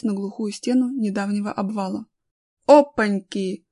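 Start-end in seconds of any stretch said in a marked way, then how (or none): 2.7-3.7 loud, drawn-out "oops"; slow, surprised interjection; exclaiming. A narrator's reading. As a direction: exclaim at an unexpected obstacle. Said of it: "воскликнул Колян".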